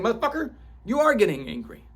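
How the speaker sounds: high, loud accusing yell; inner child's angry outburst. Retold or imitated. Inner child scolding the speaker: high, loud angry accusing. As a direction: let the inner child call you out, loud. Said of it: "My inner child was getting pissed off, saying".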